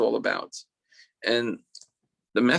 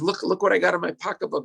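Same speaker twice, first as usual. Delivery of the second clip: put-on higher, coaxing voice for children; sweet and kind; 7 semitones higher, faster than usual. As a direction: play a kindly woman offering a treat. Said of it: "she's sweet and kind and loving".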